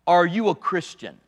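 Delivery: light southern drawl preacher impression; hint of a southern preaching drawl; Billy Graham's southern drawl. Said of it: "in his southern drawl".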